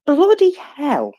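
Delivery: a posh English "bloody hell", drawn out slowly; "bloody hell" said the English way, stretched and high; very English accent. Shown as a demonstration. Host doing a mock very English accent for the audience. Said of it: "in my very English accent".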